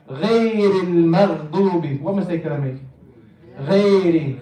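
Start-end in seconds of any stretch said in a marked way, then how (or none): 0.1-2.0 غير المغضوب with a thin, light first syllable, "ghey"; too light. Shown as a demonstration. Teacher plants a mistake in غير, too light. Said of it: "I made it too light". 3.7-4.3 غير with a thin "ghey" vowel; too light. Shown as a demonstration. Teacher repeats the mistake in غير, too light. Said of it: "I made it too light".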